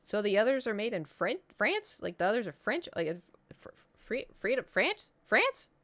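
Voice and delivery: put-on a puzzled kid piecing it together out loud; confused child. Retells her confused child self.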